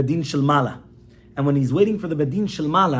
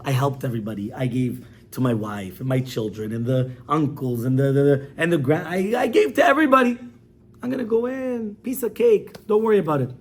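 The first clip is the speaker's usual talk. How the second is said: jolly. Retold or imitated. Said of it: "he's all happy, jolly, happy".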